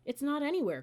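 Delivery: high, loud and panicked; panicked cry. Acted. Annie searching for the lost book, panicked cry. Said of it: "cried Annie".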